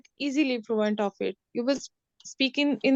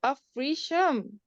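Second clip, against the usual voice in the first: slowly sounding out a name; much slower than usual. Real, not acted. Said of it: "really hard for me to pronounce this".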